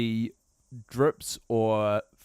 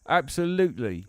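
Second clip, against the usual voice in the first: put-on English accent. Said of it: "talking like this".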